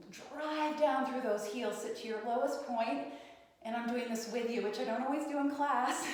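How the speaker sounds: winded, breathing between words. Real, not acted. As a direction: talk while short of breath from the squat. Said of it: "I'm a little out of breath".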